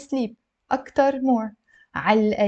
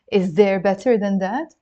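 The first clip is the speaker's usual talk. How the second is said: "Is there better than that" rising on that; question tune. Shown as a demonstration. Teacher translating the rhetorical question, rising tune. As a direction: lift that at the end, as a question. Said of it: "We ask it as a question".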